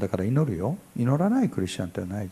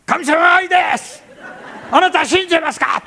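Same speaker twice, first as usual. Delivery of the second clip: much higher, loud, shouted fervent preaching; Korean-style preaching voice; 10 dB louder than usual. Shown as a demonstration. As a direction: preach it an octave up with full force. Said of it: "もう一オクターブぐらい上の方から声が出ます". (韓国式の高く張り上げた説教口調)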